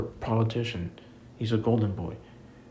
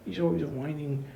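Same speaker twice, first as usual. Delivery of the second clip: whiny mock of the critics, first words whispered; lightly mocking fans who call Drew a whiner; 6 semitones higher, 3 dB quieter than usual. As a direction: sneer it like the people who complain about him. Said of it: "And then people say".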